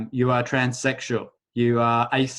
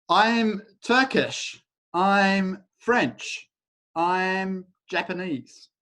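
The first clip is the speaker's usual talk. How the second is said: proud declaration; 6 semitones higher, much slower than usual. Retold or imitated. Acting out nationalities.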